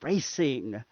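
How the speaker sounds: Racing said slow with a falling weight; Racing, drawn out and grave; emphasis on Racing. Acted. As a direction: land Racing heavily. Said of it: "He put a lot of emphasis on that".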